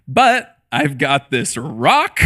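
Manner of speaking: slow, drawn-out mock offer of a rock; teasing offer. Dad playfully offers his daughter a rock instead, slow teasing. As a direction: dangle it like a silly prize.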